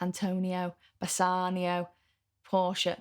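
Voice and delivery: names in a Mancunian accent. Shown as a demonstration. English teacher showing how they say Italian names, Mancunian accent. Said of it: "That's my Mancunian accent coming through".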